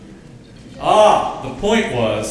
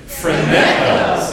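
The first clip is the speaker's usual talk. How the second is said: phroneo said louder, playful and bright-spirited; having fun; 5 dB louder than usual. Shown as a demonstration. Pastor leading church to say phroneo for fun, louder. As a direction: toss out phroneo like it's a game. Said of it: "Say it like you're having a lot of fun".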